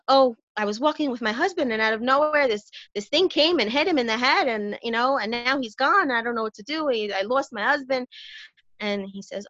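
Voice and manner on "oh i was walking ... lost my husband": higher, wailing sing-song grief; lightly acted tearful lament; mock crying woman. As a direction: play a distraught widow in a joke. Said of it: "crying over a man".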